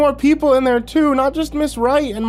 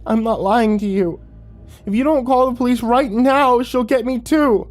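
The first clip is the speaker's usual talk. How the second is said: much higher and louder, desperate tearful plea; sobbing; 13 semitones higher, 5 dB louder than usual. Acted. Boy pleading with his parents to call police, sobbing. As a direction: sob it out, begging. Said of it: "He shook his head and sobbed".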